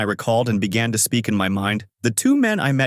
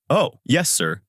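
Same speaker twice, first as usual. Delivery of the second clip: nervous; 4 semitones higher, slower than usual. Acted. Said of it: "I reply nervously".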